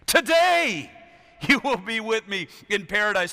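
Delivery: voicing Jesus. Jesus promising the thief on the cross, ringing. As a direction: proclaim the promise. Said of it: "what did he say".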